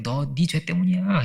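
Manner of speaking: slow accusing shaman. Retold or imitated. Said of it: "이렇게 말을 하는 건데".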